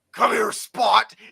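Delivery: deep, guttural, whistle-like calling voice. Narrating a scene where a figure calls its boar toward the listener; deep guttural call. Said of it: "with a deep guttural whistle".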